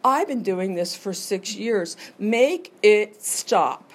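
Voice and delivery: mock desperation, make it stop stretched out; desperate plea. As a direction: beg for it to end, half-acted. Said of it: "And it was like".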